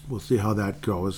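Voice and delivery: wet mouth sounds while talking; lip smacking. Real, not acted. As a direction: lips smacking between words. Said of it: "Sorry for the smacking lips".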